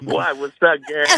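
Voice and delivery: flirty, playful greeting. Pretend. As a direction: toss it off with a flirty wink. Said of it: "What do you say?".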